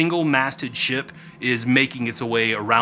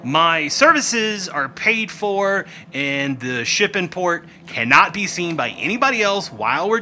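haughty Rickety; 3 semitones higher than usual. Acted. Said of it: "He's like".

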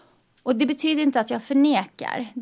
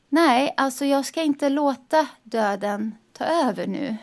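firm, emphatic refusal, louder and higher; determined resolve; 3 semitones higher, 5 dB louder, slower than usual. Retold or imitated. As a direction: put your foot down, slowing as you go. Inner vow against death, retold.

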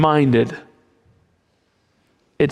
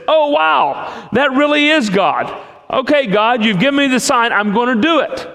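amazed Moses; 6 semitones higher than usual. Retold or imitated. Moses sees the sign, amazed.

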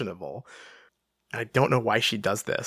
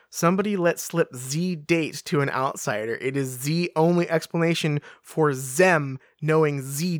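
put-on broad stereotypical French accent; 3 semitones higher than usual. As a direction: read it phonetically with a heavy French accent. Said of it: "she's speaking in a French accent".

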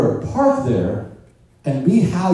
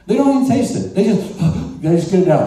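laughing; 5 semitones higher, 4 dB louder, faster than usual. Real, not acted. Laughing at dog eating.

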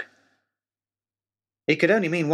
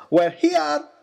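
higher and louder, gleeful cry; delighted shout; 13 semitones higher, 5 dB louder than usual. A narrator's reading. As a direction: shout it out, thrilled to arrive. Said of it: "he shouted to us".

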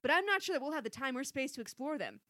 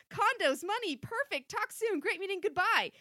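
wild unhinged ranting; 5 dB louder, slower than usual. Acted. Overheard fragments building to villain laugh.

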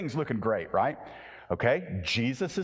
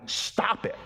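hushed, breathy stop it; whispered rebuke. Acted. The crowd hushing the beggar in a whisper. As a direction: hiss it under your breath.

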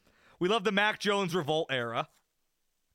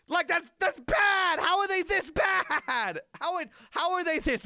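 real sports-fan outrage, raised and slowing down; exasperated shout; 8 semitones higher than usual. Real, not acted. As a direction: vent at the team like you can't believe it. Venting at team's play.

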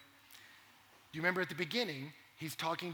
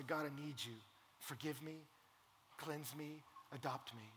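softer, humble words of prayer; sample prayer; 10 dB quieter than usual. Shown as a demonstration. Preacher leading seekers in a soft prayer. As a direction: pray it gently for them to echo.

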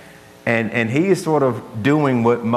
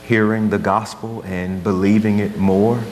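prayer; 2 semitones lower than usual. Acted. Pastor praying over his church, earnest prayer voice. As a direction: pray over the congregation, unhurried. Opening prayer before sermon.

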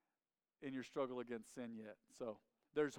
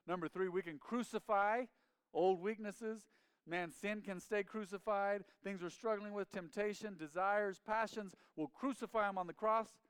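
raised, insistent preacher's voice; fervent preaching; 6 semitones higher, 3 dB louder than usual. Real, not acted. Preacher summing up struggles to crucify, fervent. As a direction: press the point with zeal.

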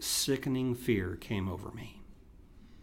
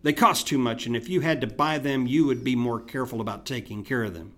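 complaining; 4 dB louder, faster than usual. Retold or imitated. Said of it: "And then I complained".

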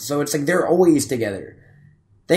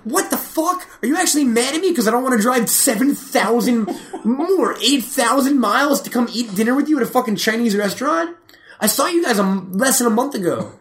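incredulous outburst; 10 semitones higher than usual. Retold or imitated. Retelling outburst at his mom.

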